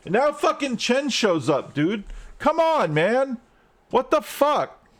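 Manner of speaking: real gamer rage at the screen, rising high; frustrated outburst. Real, not acted. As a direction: pitch jumps way up in exasperated disbelief. Gamer raging at enemy arrival.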